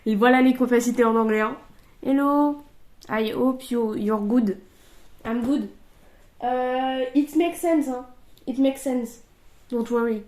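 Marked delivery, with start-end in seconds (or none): 2.0-10.2 French-accented English, lightly put on; careful schoolroom English in a French accent; best English accent. Real, not acted. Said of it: "J'ai sorti mon meilleur accent anglais".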